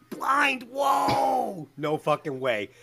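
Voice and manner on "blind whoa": high, drawn-out whoa of disbelief; incredulous, pitched up; shocked disbelief. Real, not acted. Shocked at his friend's choice.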